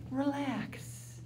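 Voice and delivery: soft, drawn-out relax; dismissive "relax". Acted. Man brushing off an upset woman, softly dismissive. Demonstrating what men should never say.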